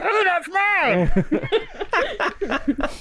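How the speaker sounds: high muffled squeak; muffled high voice from inside. Acted. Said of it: "You hear this muffled voice like".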